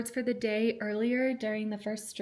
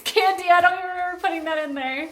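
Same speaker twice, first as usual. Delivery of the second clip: laughing; 7 semitones higher, 7 dB louder, faster than usual. Real, not acted. Laughing at old candy.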